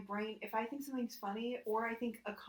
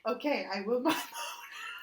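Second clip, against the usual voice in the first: mock AI reply; 4 dB louder, slower than usual. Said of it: "And I would go".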